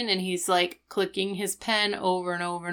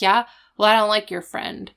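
mock confrontation; 3 semitones higher, 5 dB louder than usual. Girl confronting Rachel.

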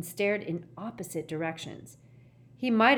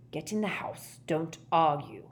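corner of the mouth. Acted. Gaunt to his son, out of the corner of his mouth. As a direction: say it from the side of the mouth. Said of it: "spoke out of the corner of his mouth".

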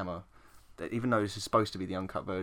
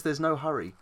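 lightly mocked English accent, slightly raised; mocking English accent; 4 semitones higher, 4 dB louder than usual. Quoting the film's Larry, mock English accent. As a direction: imitate a put-on English accent. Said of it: "he's doing a mocking English accent".

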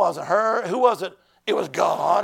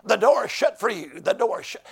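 mock attitude. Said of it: "she copped an attitude".

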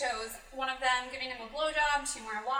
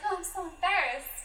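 lightly voiced girl, pitched up; mock-embarrassed character line; 6 semitones higher, 4 dB louder than usual. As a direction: imitate a flustered girl in a higher voice.

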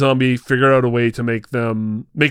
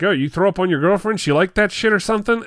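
higher, quick sneering jeer; a lightly voiced killer gloating at his victim; Otis taunting; 6 semitones higher, faster than usual. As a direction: rub it in with a quick, higher mocking voice. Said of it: "he's like".

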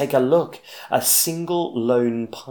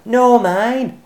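much higher, loud holler; 14 semitones higher, 10 dB louder than usual. Acted. Bruce racing Cyril for the pine cone, loud high holler. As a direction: bellow it to win the cone. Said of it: "hollered Bruce".

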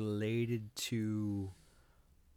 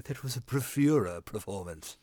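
snooty voice. Retold or imitated. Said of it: "snooty, highfalutin vocab would say".

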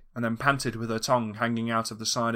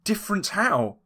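high worried question; alarmed question; 8 semitones higher than usual. Acted. Dog alarmed.

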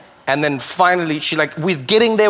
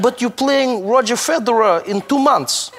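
incredulous coach; 5 semitones higher, slower than usual. Retold or imitated. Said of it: "He's like".

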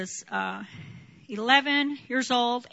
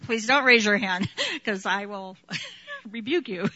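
chuckling through a teasing line; playful laughing rebuke; laughing joke. Real, not acted. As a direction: tease them while laughing. Joking about rebuking the sinless.

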